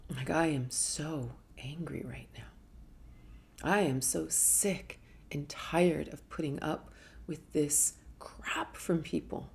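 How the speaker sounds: slow, hushed seething anger; restrained, whispered resentment; quiet fury. Shown as a demonstration. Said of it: "Wow, am I ever angry".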